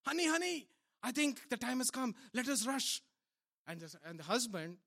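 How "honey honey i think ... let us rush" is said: a higher, urgent wife's voice. Acted. Wife waking her husband in the night, urgent and higher. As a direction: wake him with rising urgency. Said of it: "the wife suddenly wakes up ... she says".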